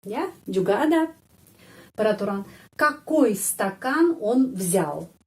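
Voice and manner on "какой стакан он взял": какой slow, stressed on the O. Shown as a demonstration. Teacher reads a Russian sentence slowly to students, stressing какой. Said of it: "Какой di sini penekanannya pada huruf O".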